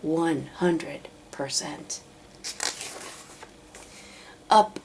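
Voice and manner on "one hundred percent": whisper. A narrator's reading. Sad narration line whispered.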